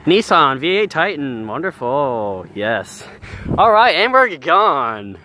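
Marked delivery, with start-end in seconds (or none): 0.1-3.1 ad read. Acted. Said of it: "Commercial break".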